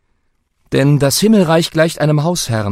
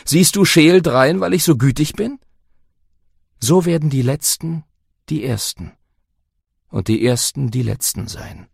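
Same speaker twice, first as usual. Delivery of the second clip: Jesus speaking. Acted. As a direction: speak as a gentle teacher. Jesus voiced in reading.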